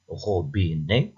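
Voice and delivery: "robinet" slowly, ro-bi-net, rising at the end; slow three-beat "robinet"; split into syllables. Shown as a demonstration. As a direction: count out "robinet" in three beats. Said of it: "trois syllabes".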